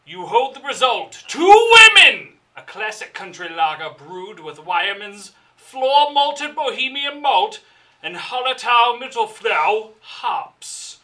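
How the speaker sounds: reading out a label in a showy voice; label read aloud. Acted. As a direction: read it like a grand announcement. Reads the beer label aloud.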